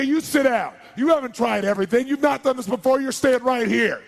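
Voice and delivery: high, loud, forceful order; stern command. Acted. Doctor ordering a patient to stay, stern and loud. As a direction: lay down the law, loud and high.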